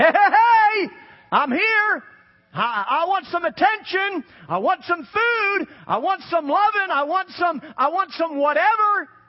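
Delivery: loud, high demanding voice. Voicing our flesh making itself known and wanting food: voicing our flesh. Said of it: "that's the way our flesh acts".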